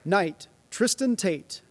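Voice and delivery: slow, drawn-out formal name call; knighting ceremony. Real, not acted.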